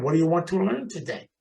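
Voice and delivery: light imitation of a European accent; mildly accented foreign teacher. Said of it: "He had an accent".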